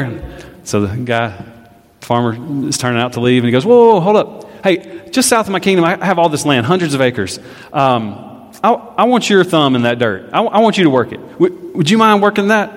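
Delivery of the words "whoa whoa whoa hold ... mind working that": eager king. Acted. King calls farmer back.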